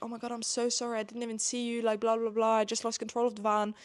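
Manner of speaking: mildly imitated over-apologising; gushing apology. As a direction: apologise profusely, skimming into filler. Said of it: "apologizing so much to Bella".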